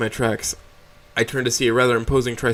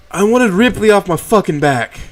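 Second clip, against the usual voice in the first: annoyed; 8 semitones higher, 5 dB louder than usual. A narrator's reading. Mo snaps back.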